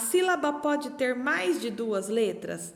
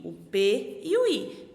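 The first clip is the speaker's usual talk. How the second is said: slow spelling; slower than usual. Shown as a demonstration. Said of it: "Que que é o pi?".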